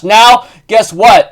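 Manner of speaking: slow and loud hype; teasing build-up. Real, not acted. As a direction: drag it out to tease. Teasing the viewers.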